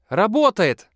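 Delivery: high, loud joyful cry. A narrator's reading. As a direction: cheer it out delighted. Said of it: "радуется Лара".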